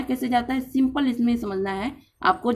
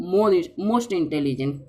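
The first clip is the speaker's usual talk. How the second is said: slow demo; 4 semitones lower, much slower than usual. Shown as a demonstration. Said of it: "तो क्या लगाएंगे".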